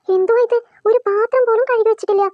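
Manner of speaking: rising anger at the unwashed dishes; fuming scolding. Acted.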